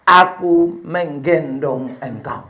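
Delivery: voice of God. Retold or imitated. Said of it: "suara Tuhan itu datang kembali".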